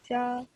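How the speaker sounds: Xia held on an even pitch; level tone on Xia. Shown as a demonstration. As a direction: say Xia steadily, without letting it fall. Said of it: "or shrimp too".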